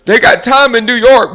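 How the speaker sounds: mock pundit. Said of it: "They said".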